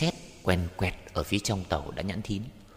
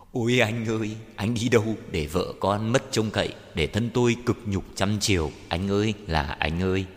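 acted wail, moderately raised; wailing cry; 3 semitones higher than usual. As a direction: call out to a lost husband in grief. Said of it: "chị gào".

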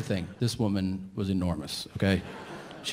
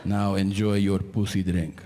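Arab man; 3 semitones lower, slower than usual. Retold or imitated. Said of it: "this one Arab guy".

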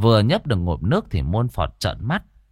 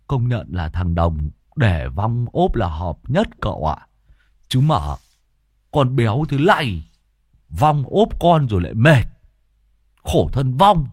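smirking quip. A narrator's reading. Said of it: "rồi mỉm cười".

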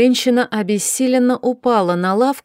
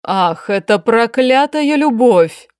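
slow, heavy mock growl, a touch louder; growling curse; 4 dB louder, slower than usual. Duchess cursing Sofi's love, slow mild growl. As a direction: spit out the curse like a growl, understated. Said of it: "зарычала герцогиня".

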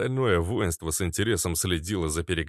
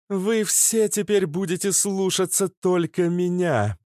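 commanding; 12 semitones higher, 4 dB louder than usual. Acted. Nymph commanding the crowd.

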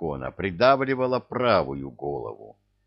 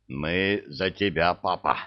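wheezing; 2 semitones lower than usual. Acted. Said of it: "просипел балбес".

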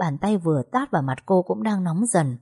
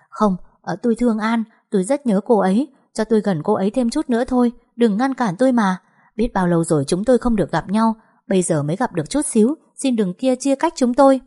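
higher, urgent pleading, rushing in places; desperate pleading; 5 semitones higher, 4 dB louder than usual. Acted. Nam clings to An and begs, higher and urgent. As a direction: beg not to be pulled apart.

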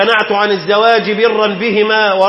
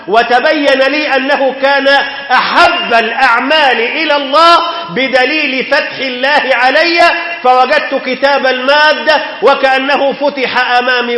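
rising fervour; 5 semitones higher than usual. Acted. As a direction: let the girl's joy lift the sermon. Preacher's climax quoting the girl.

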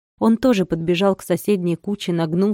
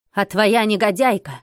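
shouting. Acted. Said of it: "закричал он".

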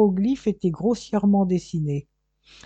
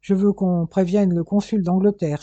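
higher, louder indignant protest; hissed protest; 4 semitones higher, 6 dB louder than usual. Acted. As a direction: protest sharply and high. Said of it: "siffla Vacariadès".

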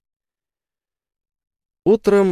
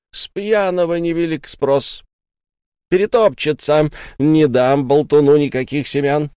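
angry refusal; 5 semitones higher, 4 dB louder than usual. Acted. Sara refuses angrily.

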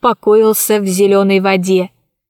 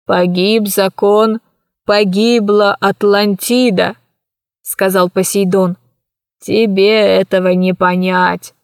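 mournful; 2 semitones lower than usual. Acted. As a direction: mourn a lost world. Old man lamenting Atlantis.

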